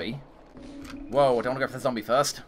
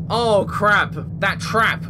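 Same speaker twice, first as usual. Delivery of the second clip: raised, frustrated outburst; exasperated and higher; mad; 4 semitones higher, 4 dB louder, much slower than usual. Real, not acted. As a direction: curse the trap, voice pitched up. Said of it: "I'm so mad right now".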